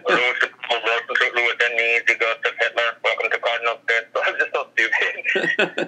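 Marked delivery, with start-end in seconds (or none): 0.1-4.1 ghost voice. Retold or imitated. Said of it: "proceeded to do".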